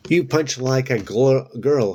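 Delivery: high, loud jeering taunt; taunting exclaim. A narrator's reading. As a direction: crow it at her. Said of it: "he exclaimed".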